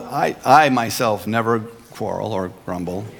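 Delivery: chuckling through the joke; laughing irony. Real, not acted. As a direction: tease the congregation while laughing. Ironic self-exemption.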